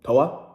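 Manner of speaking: toa with the d dropped, two syllables; Puerto Rican toa. Shown as a demonstration. Showing viewers how Puerto Ricans drop the d in toa. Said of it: "instead of saying todo, they say, like".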